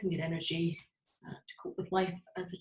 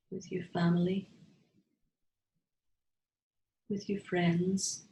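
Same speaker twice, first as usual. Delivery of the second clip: guided meditation. Real, not acted. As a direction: lead the group gently inward, phrase by phrase. Leads a guided heart visualization.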